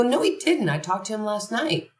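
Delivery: high, disbelieving cry of no, retold; reliving the moment she refused to believe it; shocked denial. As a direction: jump way up in pitch on the no, then fall back. Hears Kobe died, denies it.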